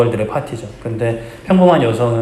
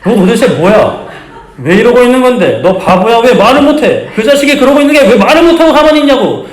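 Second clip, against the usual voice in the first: much higher, louder hammed-up drama yell; drama heroine shouting; 13 semitones higher, 9 dB louder than usual. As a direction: replay the drama hero's angry outburst, laughing through it. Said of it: "뿌리치면서 장면 기억하시죠?".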